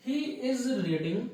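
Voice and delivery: each word drawn out slowly for the class; slow dictation. Shown as a demonstration. Teacher reading the example sentence slowly to students, drawn out. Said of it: "तो इस प्रकार अलग अलग चीजें होती है".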